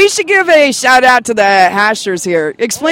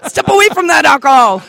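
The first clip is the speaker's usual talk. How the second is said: laughing; 4 semitones higher than usual. Real, not acted. Laughing while scolding jokingly.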